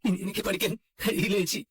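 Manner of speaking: hopeless, tearful lament; crying. Acted. Brother telling his sister his studies are over, crying. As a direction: give up through tears. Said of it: "കരയാതിരിക്ക്".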